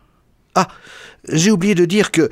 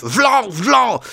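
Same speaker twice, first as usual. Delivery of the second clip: high exclaimed blow sounds; slap noises; 9 semitones higher than usual. A narrator's reading. Narrator mimics slaps landing on the lecturer, high exclamations. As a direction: punch out each slap on a high note.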